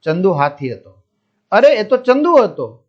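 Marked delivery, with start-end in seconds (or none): 1.5-2.8 excited cry. Acted. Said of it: "તે જોર જોરથી બૂમો પાડવા માંડ્યો".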